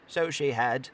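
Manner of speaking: cried out. Acted. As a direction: burst out in eager agreement. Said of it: "cried Scrooge".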